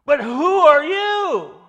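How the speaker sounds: high, loud scornful challenge; voicing the evil spirit's contempt for the pretenders. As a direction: sneer it down at them like a demon. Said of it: "He says it with contempt".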